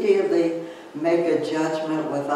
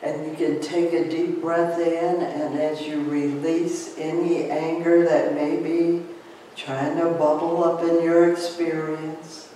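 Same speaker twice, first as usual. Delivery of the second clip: calm breathing guidance fading to a hush; guided meditation; 3 dB quieter than usual. Acted.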